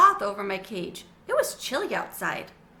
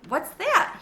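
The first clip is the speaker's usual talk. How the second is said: put-on small boy; 8 semitones higher, 3 dB louder than usual. A narrator's reading. Little Carlos asks.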